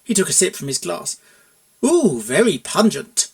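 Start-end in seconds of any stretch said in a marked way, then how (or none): 1.8-3.3 slow, drawn-out Ooh of a wine taster; connoisseur savouring. Acted. Buck tasting tap water like fine wine, slow and savouring.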